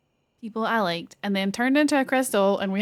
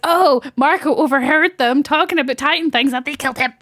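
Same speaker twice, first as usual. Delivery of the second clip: excited reveal; 5 semitones higher, 8 dB louder than usual. Retold or imitated. Retelling a shocking reveal.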